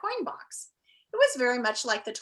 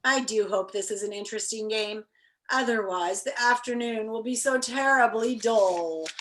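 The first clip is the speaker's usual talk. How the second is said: wistful. Acted. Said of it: "he remarked wistfully".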